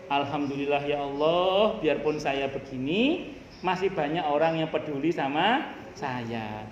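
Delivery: low-pitched prayer of thanks; ucapan syukur. Acted. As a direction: drop low, as if thanking God inwardly. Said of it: "terus tiba-tiba syukur". (ucapan syukur bernada rendah)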